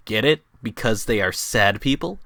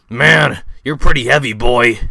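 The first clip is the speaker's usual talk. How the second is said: Filthy Frank voice; 8 dB louder than usual. Acted. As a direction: play Frank offering the baptism. Frank carrying Luke.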